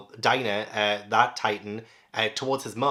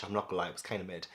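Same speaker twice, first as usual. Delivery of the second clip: muttered aside; 4 semitones lower, 10 dB quieter, much faster than usual. Real, not acted. Quick aside rating the speech.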